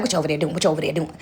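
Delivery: a lightly voiced blind grandma calling out; grandmother's voice. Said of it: "She like".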